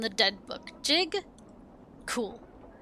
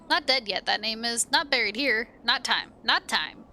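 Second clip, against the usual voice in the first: sing-song dustman. Acted. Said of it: "curious sing-song voice".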